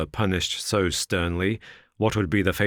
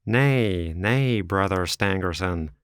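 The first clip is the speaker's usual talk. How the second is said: crying out; slower than usual. Acted. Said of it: "cried the other".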